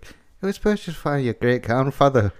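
second go at Walken, near his own voice; lightly voiced Walken, drifting accent; Christopher Walken impression. Host retrying Walken line, sounding Irish. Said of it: "it sounded like Mark Wahlberg".

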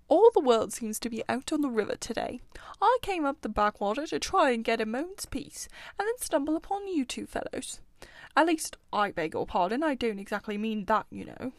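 a hint of a grumbling, sociable animal; lightly voiced Otter. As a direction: grumble lightly, then excuse yourself politely.

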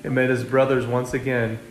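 measured, expressive storybook reading; story narration. A narrator's reading. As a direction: read it as a children's story.

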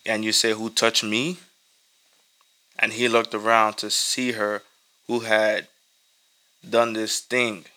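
measured, even Bible reading to the church; scripture reading. Acted. Preacher reading Mark to his congregation, measured and steady. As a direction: read the passage aloud steadily for the congregation.

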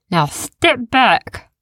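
slow, high creature warning; cautious beast. A narrator's reading. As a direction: warn them, slowly.

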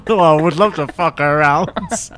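giggling through the words; laughing so hard the line barely holds. Real, not acted. Postman laughing at his own crude joke.

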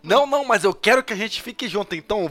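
high, fast whining; mock whiny girl. Friend mocking Queenie's choice, fast and high. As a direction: rattle it off like a silly girl. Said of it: "Vamos ficar junto".

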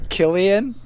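Killian said as KIL-ee-an with a short i, asking it; name pronunciation. Shown as a demonstration. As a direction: Killian with short i, questioning rise. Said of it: "How do you say it?".

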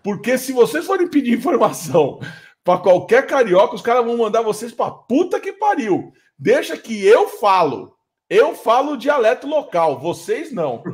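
shouting to the group. Retold or imitated. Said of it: "a primeira coisa que eu gritei".

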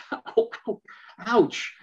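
high, breathy joking ow ow; laughing it off; mock hurt dad, not serious; playful ouch. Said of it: "if Dad says".

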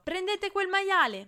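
high, drawn-out yell to the crowd; gleeful shout. A narrator's reading. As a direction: shout it out loud and high, full of glee. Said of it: "in allegria urlando". (urlo allegro)

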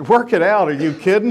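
put-on eager kid. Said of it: "immediately I'm a kid again".

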